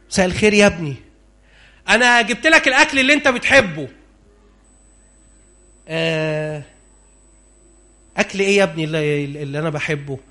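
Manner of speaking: a tired blind father, barely audible; old blind father. Acted. Blind old Isaac answering.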